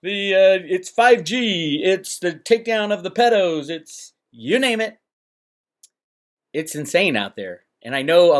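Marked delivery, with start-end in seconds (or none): 0.0-5.0 higher-pitched mock bickering; squabbling YouTubers. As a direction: mimic rivals arguing over each other. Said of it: "YouTube people are fighting against each other".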